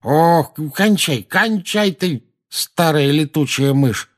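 drawn-out aggrieved outcry; pained protest. Acted. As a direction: beg the attacker to stop, crossly. Man beaten with a bag.

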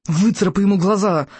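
mildly strained creature cry; squealing dragon. A narrator's reading. Dragon urges the fighter to scratch eyes out, mild squeal. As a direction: egg on the fighter with a small squeal. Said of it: "визжал Яркоготь".

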